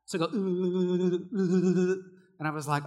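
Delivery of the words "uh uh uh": loud held droning hum of mic feedback; imitated feedback noise. Preacher mimicking the sound system's feedback, droning noise. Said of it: "there'd be feedback in the back".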